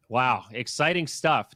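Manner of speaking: dry, slow sarcastic praise; deadpan fake excitement. Real, not acted. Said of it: "You said that so sarcasm".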